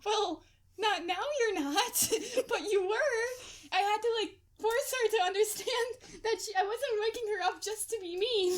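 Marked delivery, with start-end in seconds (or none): 0.0-3.2 slow, giggling correction; laughing retort. Retold or imitated. To the sad roommate, laughing retort. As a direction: tease her gently through laughter.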